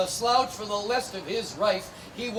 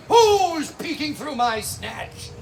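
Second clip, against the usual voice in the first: witch yelling; 3 semitones higher, 4 dB louder, slower than usual. Acted. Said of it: "She's yelling".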